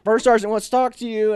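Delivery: barked message, acted out; drill sergeant's summons. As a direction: call a recruit over sternly.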